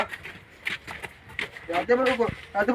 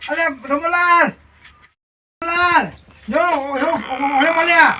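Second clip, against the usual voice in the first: higher, raised call; stretched-out call at raised pitch; 3 semitones higher, slower than usual. Acted. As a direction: hail someone by name. Calling out to Ramanlal.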